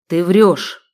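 loud angry bark; a furious sheikh barks; barked accusation. A narrator's reading. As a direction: snap at her with rage. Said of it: "рявкнул он".

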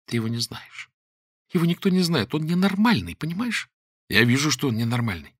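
high, frightened pleading that keeps climbing; a girl near panic, voice rising; frightened plea. Acted. Trapped girl begging her friend, frightened and pleading.

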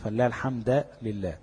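الحمد لله with a fatha on the د, الحمدَ; wrong fatha. Shown as a demonstration. Teacher demonstrates a wrong vowel on الحمد. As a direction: read الحمد with a on the د. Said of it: "أو فتح دال الحمد لله".

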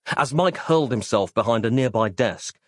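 usual speaking voice

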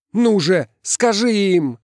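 loud, very high demand; desperate urging. A narrator's reading. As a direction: press her to speak up. Хватает за плечи, требует.

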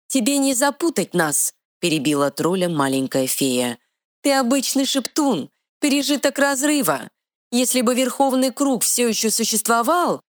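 high, quick little fairy voice. Acted. Fairy scolding the troll, high and bossy. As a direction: play a tiny sassy fairy, pitched high.

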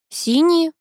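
high, bold announcement; firm declaration. A narrator's reading. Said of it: "заявила я".

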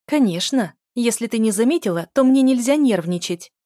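громко и резко, с обвинением; бросает упрёк в лицо сестре; гневный упрёк. A narrator's reading. (громкий гневный упрёк)

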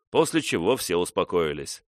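ordinary delivery

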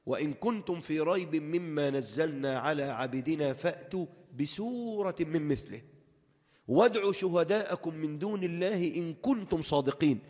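measured, slow recitation; Quran recitation. Acted. Preacher reciting the verse to the congregation, slowly. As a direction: recite with solemn care.

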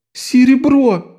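очень высоко и медленно, выдавливая слово; выдавить сквозь притворные слёзы; сквозь рыдание. A narrator's reading. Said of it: "сквозь рыдание выдавил Лок". (Лок рыдает перед Строллой)

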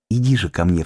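plain reading voice

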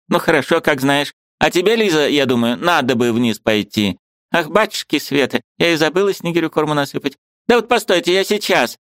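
put-on high, fussy old woman; a bustling old aunt, pitched high; old aunt's voice. A narrator's reading. Old aunt shooing the niece, high fussy voice.

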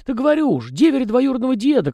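high, folksy little peasant voice; chatty house spirit. A narrator's reading. House spirit Tikhon rambling to the young master, high and folksy. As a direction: prattle on as a talkative domovoi.

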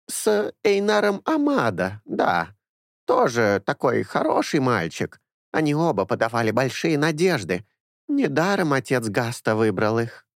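put-on a fussy old nanny doting on her boys; old woman. A narrator's reading. Old woman Anessa speaks.

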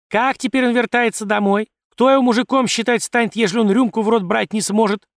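loud indignant rant at the magistrate; ranting loudly. A narrator's reading. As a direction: keep hammering the complaint loudly. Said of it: "продолжала разоряться баба".

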